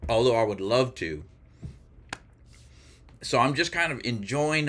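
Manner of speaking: talking while chewing pizza; mouth full. Real, not acted. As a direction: speak around a mouthful of food. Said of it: "I have food in my mouth".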